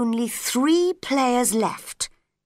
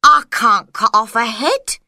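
executioner's voice; 8 dB louder than usual. A narrator's reading. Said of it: "said the executioner".

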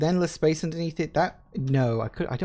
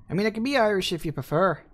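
higher-pitched, playful Irish accent; put-on Irish accent; 6 semitones higher, faster than usual. Shown as a demonstration. Streamer offering viewers to be Irish, in an Irish accent. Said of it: "put on an Irish accent".

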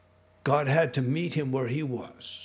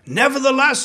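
emphatic giving in; 10 semitones higher, 9 dB louder than usual. Acted. Peter answering Jesus, loud and high. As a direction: give in with a big sigh of emphasis.

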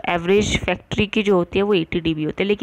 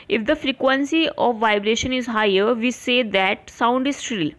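slow, deliberate textbook dictation; careful slow dictation to students; dictation reading; much slower than usual. Acted. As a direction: read it out slowly for notes. Dictates line slowly.

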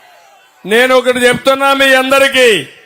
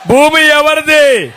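slow shouted question; rally question; 5 semitones higher, slower than usual. Real, not acted. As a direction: demand the answer from the crowd. Rhetorical question to the crowd. (నెమ్మదిగా అరుస్తూ ప్రశ్న)

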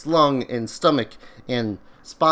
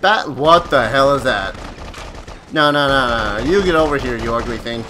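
panicked yelling; 5 dB louder than usual. Real, not acted. Fighting a monster in panic.

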